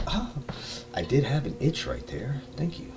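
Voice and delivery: mock-pleasant, soft thanks; polite mock gratitude. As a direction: act mildly pleased by the jolt. Acted thanks after being tased.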